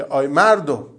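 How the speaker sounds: put-on quoting a preacher in light Yazdi accent. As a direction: call out to the people with a Yazdi lilt. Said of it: "با لهجهٔ شیرین یزدی". (لهجهٔ ملایم یزدی)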